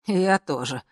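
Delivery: ordinary delivery, nothing marked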